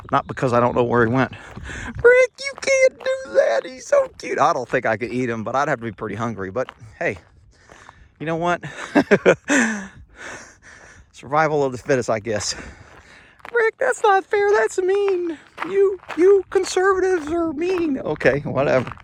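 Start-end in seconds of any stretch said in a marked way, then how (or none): 1.3-4.4 very high, slow squealing falsetto mocking a softhearted viewer; mock falsetto critic. Vlogger mocking viewers who'd spare the rabbit, very high mock falsetto. 13.5-18.0 very high, slow squealing falsetto mocking a softhearted viewer; mock falsetto critic. Vlogger mocking viewers who'd spare the rabbit, very high mock falsetto.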